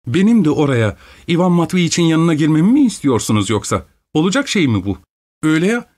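a spoiled wife outraged at the idea; indignant young wife. A narrator's reading.

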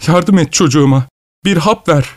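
desperate mother's demand, volume held back; angry cry. A narrator's reading. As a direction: cry out at the doctor, pitched high. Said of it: "kötü kötü haykırdı bana doğru".

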